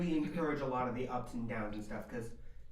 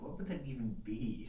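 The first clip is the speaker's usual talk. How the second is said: breathy puzzled whisper; a baffled whispered aside. Real, not acted. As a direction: whisper it half to yourself.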